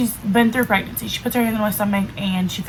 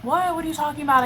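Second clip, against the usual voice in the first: imitating the dad's stunned what, higher; voicing the boyfriend's disbelief, pitched up; shocked disbelief; 6 semitones higher, faster than usual. Boyfriend hears pregnancy news.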